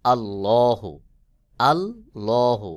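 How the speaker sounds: আল্লাহু with a thick, full lam, the second drawn out slowly; আল্লাহু, লাম মোটা করে; heavy lam. Shown as a demonstration. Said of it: "মোটা করে উচ্চারণ করতে হবে".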